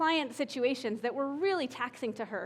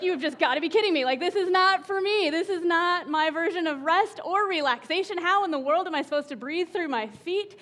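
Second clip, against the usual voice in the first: loud, fast mock exasperation; exasperated disbelief; 4 semitones higher, 4 dB louder than usual. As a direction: act out losing it in yoga class. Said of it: "I was like".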